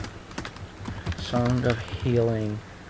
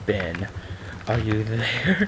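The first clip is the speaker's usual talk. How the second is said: spooky call; 4 dB quieter, much slower than usual. Pretend. Calling out to Ben the ghost.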